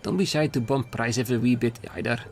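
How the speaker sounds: lightly put-on Scottish accent; attempted Scottish accent. Stall boss urging the team to compete, attempted Scottish accent. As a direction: try a mild Scottish burr. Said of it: "why is your accent so hard to do".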